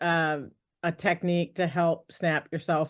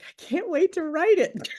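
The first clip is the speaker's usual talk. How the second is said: higher, suppressing a laugh; laughing reply; 10 semitones higher than usual. Retold or imitated. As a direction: swallow the giggle as you say it. Trying not to laugh.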